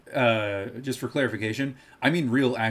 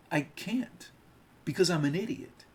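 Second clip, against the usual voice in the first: higher mocking pundit voice; pitched-up, self-mocking pundit; Sam Seder impression; 6 semitones higher than usual. Mocking a rival streamer to chat in a higher, self-mocking voice. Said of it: "that was my Sam Seder impression".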